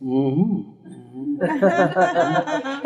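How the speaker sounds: imitating a soothing counselor's murmur, lightly done; soothing machine voice. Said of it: "a very wonderful, soothing voice would say".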